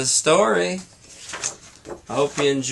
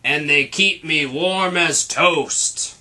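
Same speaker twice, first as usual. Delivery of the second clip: slow, lightly growly Yeti; a hint of a gruff monster; lightly voiced Yeti. Yeti refusing Charlie, slow mock growl. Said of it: "growled the Yeti".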